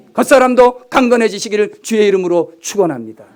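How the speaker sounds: loud earnest benediction; fervent blessing. Acted. Pastor blessing the church members, fervent. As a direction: bless them with conviction.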